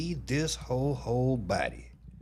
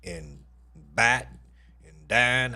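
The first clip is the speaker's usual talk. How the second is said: "at", "bat", "dine" in a Houston accent, words pulled long; 3 dB louder, much slower than usual. Shown as a demonstration. Streamer mimics her Houston accent. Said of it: "She got that goddamn accent".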